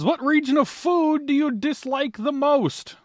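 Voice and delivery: high, slow game-show host read; announcer voice. Acted. Reading question in announcer voice.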